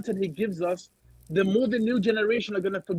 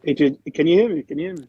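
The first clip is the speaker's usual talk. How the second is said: muffled, boomy bad mic; like talking from a bunker; inside concrete bunker; 4 semitones lower, 5 dB louder, faster than usual. Real, not acted. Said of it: "You sound like you're in someone's a-hole".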